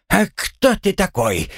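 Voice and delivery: high, drawn-out indignant question; furious challenge. Acted. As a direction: challenge him in a high, outraged voice. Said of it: "Гремлун яростно засучил ногами". (яростно и высоко, с вызовом)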